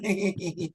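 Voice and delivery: put-on, soft little laugh; mock forced giggle. Pastor imitating a subjugated wife's laugh, mock giggle. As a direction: imitate a fake polite giggle. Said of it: "vai ficar rindo".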